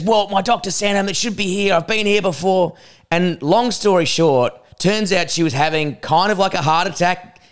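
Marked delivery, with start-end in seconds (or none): 0.0-2.7 put-on higher-pitched, stubborn old woman; insistent old lady. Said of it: "and she goes".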